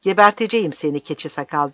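angry, firm warning; roaring threat. Acted. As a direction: threaten him with contained fury. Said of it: "diye kükredi Lucas".

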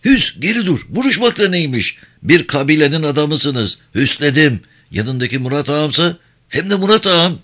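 high-pitched, urgent reprimand; urgent scolding hush. Acted. Friend hushes knife-ready companion.

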